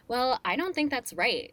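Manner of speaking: put-on sassy, condescending mean girl; snooty put-down with attitude. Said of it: "mean girl voice pretty well".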